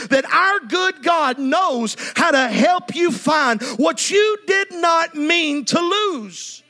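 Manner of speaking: slow, sung preaching; preacher chanting the restoration promise; preaching cadence. Real, not acted. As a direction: lift it into a sung refrain. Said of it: "preaching refrain, sung cadence".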